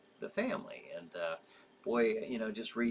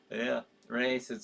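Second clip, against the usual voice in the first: ordinary talk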